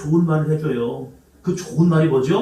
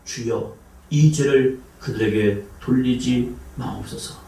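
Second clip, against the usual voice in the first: low, slow, soft prayer; quiet earnest prayer; 3 semitones lower, slower than usual. Retold or imitated. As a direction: pray it gently and slowly. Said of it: "크게 불러 이르되".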